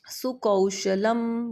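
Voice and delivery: slow सुकौशलम, औ glided as "a-oo"; सुकौशलम syllable by syllable, very slowly; stressed diphthong औ. Shown as a demonstration. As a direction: draw out सुकौशलम: su-ka-oo-sha-lam. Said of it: "मैंने यहाँ पे औ बोला था".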